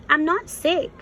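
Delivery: lightly voiced caterpillar insisting. A narrator's reading. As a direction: insist you're fine. Caterpillar insisting she's fine.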